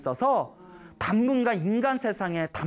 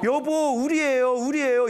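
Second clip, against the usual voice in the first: pleading wife; 4 semitones higher, 4 dB louder than usual. Retold or imitated. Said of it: "암컷 개가 말을 하더래요".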